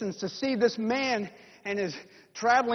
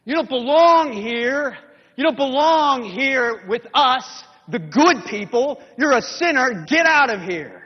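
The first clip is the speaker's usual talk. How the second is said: scornful shout; 3 semitones higher, 6 dB louder than usual. Acted. Good people loudly cast out the sinner, scornful shout. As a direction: shove the sinner out with your voice.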